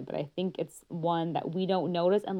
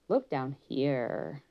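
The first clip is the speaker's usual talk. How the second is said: low and slow; 3 semitones lower, much slower than usual. Shown as a demonstration. Therapist guiding a child to look down, low slow voice. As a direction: drop the voice and draw it out. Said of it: "might bring them more down".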